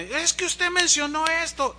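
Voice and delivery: high, pointed accusation; imitating aggressive lady. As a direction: retell the lady's attack. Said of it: "estaba bien agresiva". (imitando a la señora agresiva)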